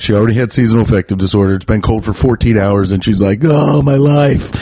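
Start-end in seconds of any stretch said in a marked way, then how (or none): 3.4-4.5 drawn-out, higher-pitched mock woe; mock lament. Imitating a sad lady cold for fourteen hours, mock lament. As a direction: imitate someone wailing in self-pity. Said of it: "she was already sad".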